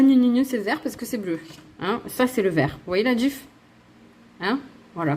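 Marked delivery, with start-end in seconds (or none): 0.0-1.4 moquerie gnangnan. Retold or imitated. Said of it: "Et ne me dites pas".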